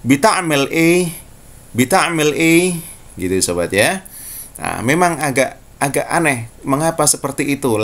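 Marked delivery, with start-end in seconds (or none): 0.1-2.8 Egyptian Arabic. Shown as a demonstration. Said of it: "Mesir akan mengatakan".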